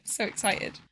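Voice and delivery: breathy whispered echo; whispered excitement. Real, not acted. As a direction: hush it to yourself, giddy.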